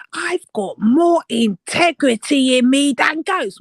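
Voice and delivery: slow, breathy mock quote; mocking whisper. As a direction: mimic her in a sneering whisper. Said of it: "she said".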